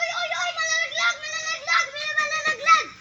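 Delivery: alarmed. Real, not acted. Warning spider will fall.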